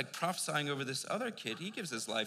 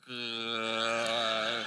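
startled surprise; 2 semitones lower, 4 dB louder than usual. Retold or imitated. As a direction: caught off guard by his own words. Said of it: "And I was like".

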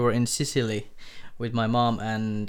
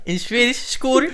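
laughing; 7 dB louder than usual. Real, not acted. Both repeat the Swedish word, laughing.

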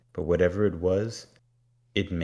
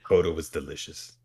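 demon voice. Retold or imitated. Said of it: "He says".

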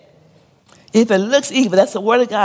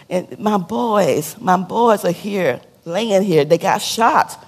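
grieving mother; much slower than usual. Retold or imitated. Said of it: "she was like".

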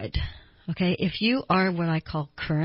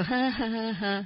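higher, mock ha-ha laugh; light put-on chuckle; imitated laugh; 3 semitones higher, 4 dB quieter than usual. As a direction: fake a polite laugh in reply. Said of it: "the person might go".

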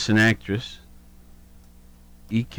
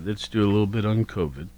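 burping the words; 4 dB quieter, faster than usual. Real, not acted. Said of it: "was that burp evident?".

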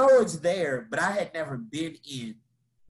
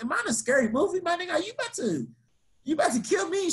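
much higher, hammed-up scared squeak; mock terror; 12 semitones higher, faster than usual. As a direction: play it like a horror victim. Imagines horror movie, panicking.

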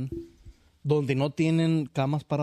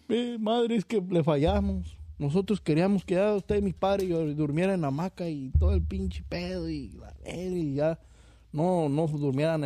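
high daughter voice; 4 semitones higher than usual. Retold or imitated.

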